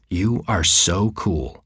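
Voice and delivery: slow, drawn-out mock praise; sneering compliment from an older girl; sarcastic. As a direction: lay on the sarcasm slowly. Older girl mocks him.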